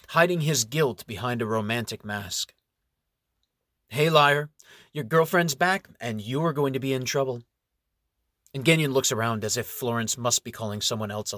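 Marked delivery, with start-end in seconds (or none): 3.9-7.4 angry confrontation. Acted. Florence confronts cheating boyfriend.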